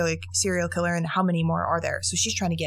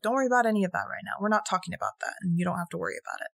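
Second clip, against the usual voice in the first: fast soothing quote, softer at end; 4 dB quieter, much faster than usual. Retold or imitated. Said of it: "she consoles him".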